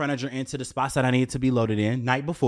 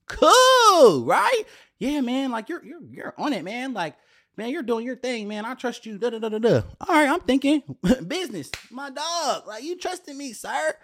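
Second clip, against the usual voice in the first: imitating the guy, much higher and light; high mock voice of the host; 10 semitones higher than usual. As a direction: play the eager yes-man, way up high. Voicing the other person's reply.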